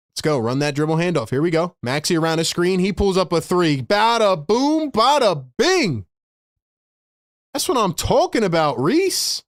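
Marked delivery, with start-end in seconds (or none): 3.8-6.1 drawn-out celebratory bada boom; excited call. Real, not acted. Celebrating a made three. 7.5-9.4 excited. Real, not acted. Celebrating the shot.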